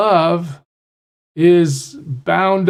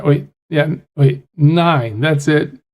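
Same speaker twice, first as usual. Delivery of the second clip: normal talking voice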